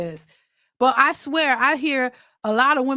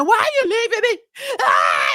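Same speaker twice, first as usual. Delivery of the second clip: high, hammed-up tearful wail; mock screaming and crying; 9 semitones higher, 4 dB louder than usual. Mimicking a crying man begging his woman, mock screaming. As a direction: imitate a desperate man bawling. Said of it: "a man screaming and crying".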